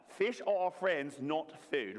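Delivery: light Australian accent. Shown as a demonstration. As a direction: say it with a hint of Australian. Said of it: "With your best Australian accent now".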